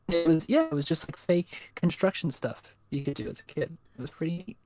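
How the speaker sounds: choppy robotic mic sound; robotic glitchy audio. Real, not acted. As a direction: voice breaking up like a robot. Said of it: "The speaker's becoming robotic somewhat".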